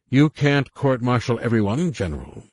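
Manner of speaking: mock the general openly. A narrator's reading. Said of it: "the intruder mocked".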